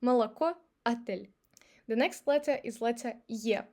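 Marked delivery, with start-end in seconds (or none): 0.0-1.3 молоко as muh-la-KO, отель as a-TEL; reduced unstressed O. Shown as a demonstration. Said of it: "better learn that it's pronounced like".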